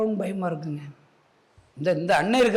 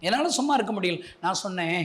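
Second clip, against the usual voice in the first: ordinary talk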